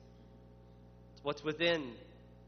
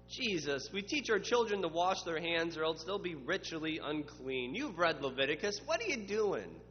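mild scolding Pharisee. Acted. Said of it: "When they say".

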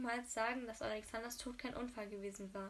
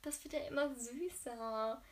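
louder swooning oh, then a delighted slow remark; delighted gush; 6 dB louder, much slower than usual. Real, not acted. Reader gushing louder over the sweet confession. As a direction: burst out in delight at the cuteness.

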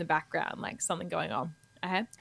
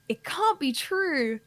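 radio ad character; 6 semitones higher, slower than usual. Acted. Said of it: "two people in conversation".

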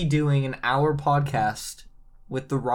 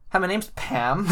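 acting calm mom; 5 semitones higher than usual. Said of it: "she'd be like".

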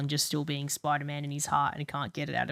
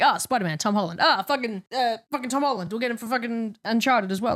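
higher-pitched, exasperated mock of a film studio; mock studio executive; 6 semitones higher than usual. Annoyed fan mimics Sony picking its usual star, mocking higher voice. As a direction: lightly imitate a studio casting on impulse. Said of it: "does Sony just not have money for anyone else".

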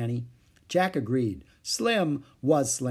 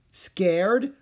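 high indignant question; indignant echo; 7 semitones higher, 5 dB louder than usual. A narrator's reading. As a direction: throw it back, offended. Jack indignant.

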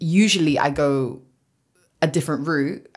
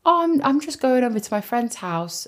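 evasive reply; 8 semitones higher than usual. Retold or imitated. Retelling own evasive answer to colleague.

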